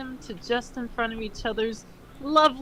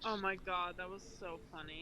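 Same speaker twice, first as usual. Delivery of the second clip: spent from laughing; 3 semitones lower, 15 dB quieter than usual. Real, not acted. Exhausted from laughing.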